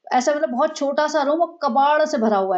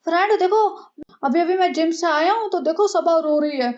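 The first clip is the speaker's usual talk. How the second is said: higher, a vlogger's showy intro voice, lightly put on; mock vlogger husband; 5 semitones higher than usual. The husband mockingly announcing to his viewers that Saba is crying. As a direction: lightly ham up the gym-fresh vlog host.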